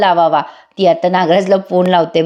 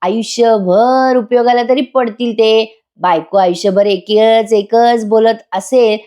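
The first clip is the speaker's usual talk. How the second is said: fed-up husband; 2 semitones higher, slower than usual. Retold or imitated. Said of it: "वैतागून म्हणतो".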